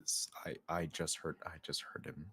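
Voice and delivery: hushed, halting whisper; very soft, near-voiceless aside. Pretend. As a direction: whisper it so only the party hears. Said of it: "I'm whispering this, by the way".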